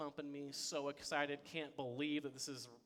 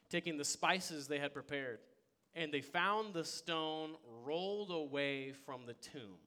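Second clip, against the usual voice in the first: scripture reading. Acted. Reads scripture aloud.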